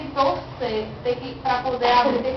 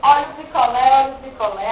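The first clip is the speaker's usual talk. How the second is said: loud sing-song call of a popsicle seller; singsong beach vendor call; 6 dB louder, faster than usual. Retold or imitated. (pregão de vendedor de praia)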